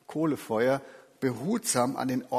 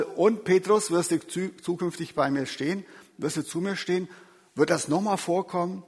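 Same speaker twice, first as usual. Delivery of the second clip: reproachful question; 5 semitones higher than usual. Shown as a demonstration. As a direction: press him like an accuser wanting a promise. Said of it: "fragt nicht vorwurfsvoll".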